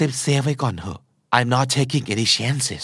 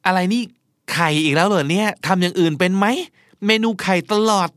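higher-pitched, put-upon grumble; grumbling complaint; 5 semitones higher than usual. Acted. Diner moaning to partner about constant egg dishes, complaining. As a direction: complain about the same dish yet again.

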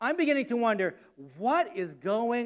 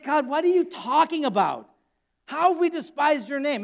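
higher, mock-innocent sarcastic protest; sarcastic retort; 4 semitones higher, 3 dB louder than usual. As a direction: play it smug and indignant. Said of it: "smarmy, self-righteous, sarcastic attitude".

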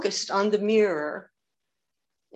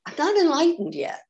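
exasperated; 6 semitones higher than usual. Acted. Acting out doubting student.

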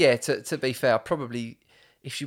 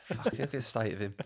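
nan's dismissive grumble, softer and quicker; mimicking nan; 7 dB quieter, faster than usual. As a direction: toss it off like an unimpressed old nan. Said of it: "She was like".

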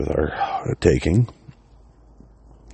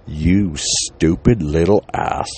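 slow, drawn-out furious scold; mom scolding; 3 semitones higher, 4 dB louder, much slower than usual. Retold or imitated. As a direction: drag each word out like a mother about to slap. Mother scolding son, voiced.

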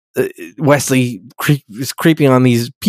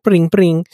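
mock alien chirp, second one higher; high-pitched alien noise; 5 semitones higher than usual. Alien explaining their primary language, lightly imitated high chirp. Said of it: "what's that high-pitched noise you're making".

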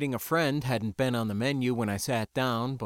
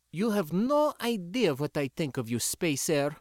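put-on scornful girl; 6 semitones higher than usual. A narrator's reading. Sindra speaks, scornful.

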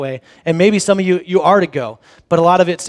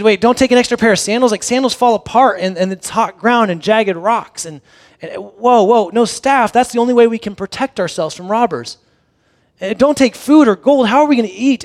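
rising protest; 4 semitones higher, 4 dB louder than usual. Retold or imitated. Disciple protesting Jesus' instructions.

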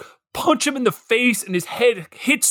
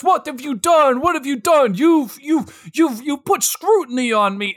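imitating Travolta; 3 semitones higher than usual. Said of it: "John Travolta is doing his best".

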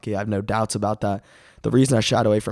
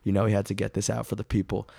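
raspy voice. Real, not acted. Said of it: "by my raspy voice".

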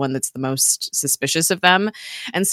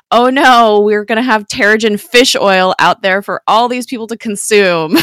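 mock alarm; 6 semitones higher, 8 dB louder than usual. Mock doom about fish oil.

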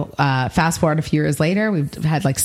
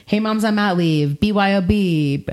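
slow, higher sing-song announcement; mock cheery post; 5 semitones higher, slower than usual. Host reading her Facebook invite to moms, slow and bright. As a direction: read it like a bubbly invite. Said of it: "I was like".

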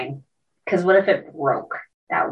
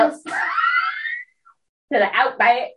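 put-on Australian accent; faster than usual. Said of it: "My country's coming out".

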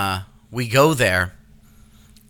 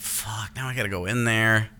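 much softer, muttered to himself; resigned under breath; 2 semitones lower, 7 dB quieter than usual. Retold or imitated. Dad muttering to himself before entering the room, very soft. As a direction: say it barely aloud.

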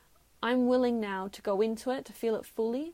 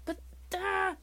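mocking duh; 9 semitones higher than usual. Mocking husband's obvious mistake.

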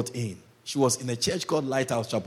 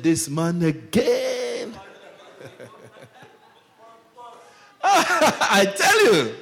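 slow, laughing disbelief; half-laughing exasperation; exasperated laugh; 7 semitones higher, much slower than usual. Real, not acted. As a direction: groan it out with a laugh.

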